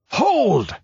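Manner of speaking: high ringing royal command; booming warrior king's order; kingly voice. Acted. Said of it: "Kull's lifted hand and kingly voice".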